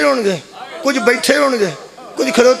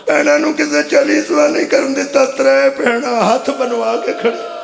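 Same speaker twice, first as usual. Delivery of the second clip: lamenting preacher. Real, not acted. Preacher mourning the sisters to the congregation, lamenting. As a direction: stretch the words into a mournful cry.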